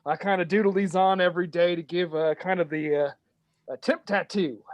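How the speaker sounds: a lightly voiced Southern dwarf; easy Southern twang for a proud dwarf; Southern drawl. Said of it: "dwarves have Southern accents".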